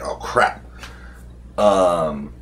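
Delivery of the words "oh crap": whispered oh crap. Retold or imitated. Enemy appears right next to me.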